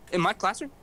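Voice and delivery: a hint of a stunned teacher asking; surprised teacher. Teacher asks the student, mildly surprised. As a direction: raise it a little, in disbelief. Teacher learns of call in class.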